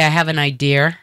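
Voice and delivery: "idea" ending in an R sound; Boston added R. Shown as a demonstration. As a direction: say "idea" as if it ended in -er. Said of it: "put R's where they don't belong".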